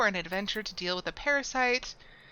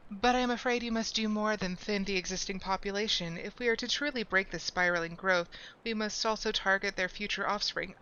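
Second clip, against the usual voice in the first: calm conjurer voice; 3 dB quieter than usual. Acted. Same conjurer voice.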